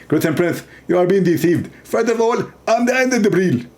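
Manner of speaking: a lightly put-on, pompous preacher's voice; half-hearted preacher impression, end plain; mock Zakir Naik. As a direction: announce it grandly, as a parody. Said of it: "He speak like this".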